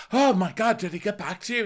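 hammed-up shocked question; mock alarmed wife. Host imitating Lisa reacting to John, high and alarmed.

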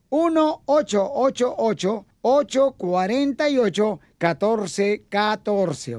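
very slow, drawn-out number read; slow motion. Shown as a demonstration. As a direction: stretch every digit out. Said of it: "¿no crees que estás hablando muy despacio?".

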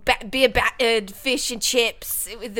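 slow, careful mock British; British accent. Guest lists British food, in careful fake British. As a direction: feel out a put-on British accent. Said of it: "when I do British accent".

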